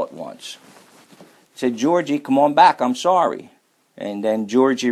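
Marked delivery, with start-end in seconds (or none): 1.8-3.5 a higher call across the playground, lightly acted; big boy calls lonely to small friend, a high mock call.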